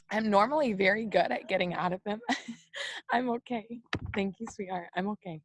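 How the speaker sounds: soft, teary reassurance; crying but insisting you're fine; real tears. Real, not acted. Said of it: "I'm emotional too".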